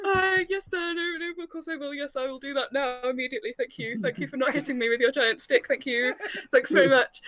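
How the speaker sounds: lightly voiced flustered drunk; meek apology. Brother meekly apologizing to officer.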